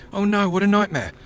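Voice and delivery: high, loud dismay; dismayed outcry. Real, not acted. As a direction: groan it out in dismay. Failed catch, dismay.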